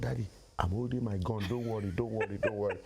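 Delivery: low, confiding reassurance; reassuring son. Acted. Son secretly reassuring his father about his gun, calm.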